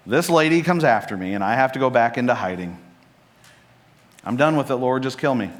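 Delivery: an exhausted prophet begging to be done; despairing complaint. Acted. Elijah on the run, pleading with the Lord, despairing.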